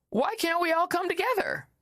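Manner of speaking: high-pitched mimicked plea, no real volume; mock yell. Commentator mimicking voters now calling for unity, mock yell. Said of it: "Now yelling".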